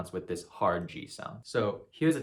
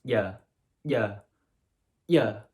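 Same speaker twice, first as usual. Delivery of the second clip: rising louder breathy yeah; a pop singer's voice; 5 dB louder, much slower than usual. Shown as a demonstration. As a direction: drawl out yeah like a pop star. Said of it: "how a singer pronounces yeah".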